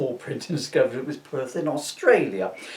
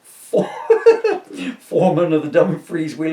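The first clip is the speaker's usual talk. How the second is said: real laugh cutting off the word; breaks into laughter; 3 semitones higher, 8 dB louder than usual. Real, not acted. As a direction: laugh out loud mid-sentence. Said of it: "laughing mid-read".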